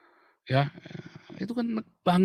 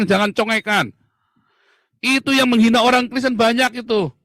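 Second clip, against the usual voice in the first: higher, much louder furious yelling; real angry shout; 6 semitones higher, 7 dB louder than usual. Real, not acted. Ranting vlogger yelling at the security minister, enraged. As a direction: bellow it straight at the minister. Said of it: "saya teriak lebih keras lagi".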